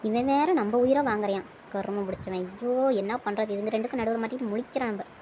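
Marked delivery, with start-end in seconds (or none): 1.7-5.1 grumbling aside. Acted. Caught between the two of them, soft exasperated aside. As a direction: grumble under your breath, softly.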